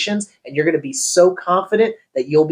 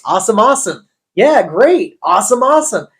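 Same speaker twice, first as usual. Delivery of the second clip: higher, louder rapid awesomes; nervous filler; 6 semitones higher, 5 dB louder than usual. Retold or imitated. New agent covering nerves on a cold call with fillers. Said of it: "it was my filler words".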